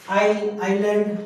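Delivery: आई, आइलैंड drawn out slowly, s left out; slow drill for students; slow silent s. Shown as a demonstration. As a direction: stretch आई then आइलैंड, no s. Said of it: "यहाँ पे एस नहीं बोलना है".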